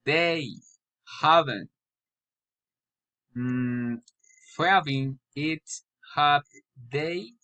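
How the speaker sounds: "haven't" falls, "have they" rises; halting words, then lift "have they" upward; tag question intonation. Shown as a demonstration. Learner practising tag questions, rising on "have they". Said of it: "poly or raising intonation".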